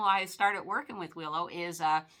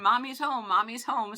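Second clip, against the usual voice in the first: lightly excited, higher-pitched greeting; excited dog greeting; 4 semitones higher, 4 dB louder than usual. Retold or imitated. Friend's dog runs into the kitchen to greet, mildly excited. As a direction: voice a happy dog's welcome.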